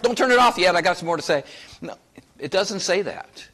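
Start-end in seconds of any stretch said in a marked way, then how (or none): 0.0-1.4 calling out. Real, not acted. Calling out to radio listeners.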